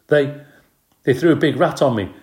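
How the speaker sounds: high, loud tearful protest; stammering, upset complaint; almost in tears. A narrator's reading. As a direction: wail it to the driver. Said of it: "He was almost in tears".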